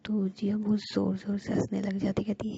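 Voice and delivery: ordinary delivery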